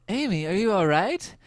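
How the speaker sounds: high-pitched imitation of a worried mom; hammed-up high mom voice; mock motherly concern. Retelling mom's concerned question.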